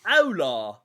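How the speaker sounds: slow, loud, hammed-up Spanish accent; mock Spanish accent. Teasing a British friend, mock Spanish accent. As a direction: drawl the Spanish greeting in a put-on accent. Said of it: "how you speak Spanish in your accent".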